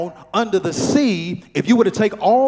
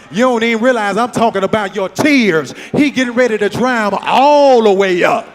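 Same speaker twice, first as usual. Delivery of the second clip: preaching; 3 semitones higher, 6 dB louder than usual. Real, not acted. Preacher exclaims to congregation.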